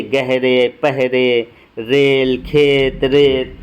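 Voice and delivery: plain 'e' in गहरे, पहरे, रेल, खेत, रेत; simple ye sound. Shown as a demonstration. Teacher listing examples for the class, plain e vowel. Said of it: "इसकी आवाज़ सादी होती है".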